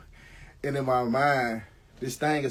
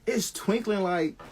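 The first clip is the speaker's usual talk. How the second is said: delighted wonder; 10 semitones higher, much slower than usual. Retold or imitated. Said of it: "I was like".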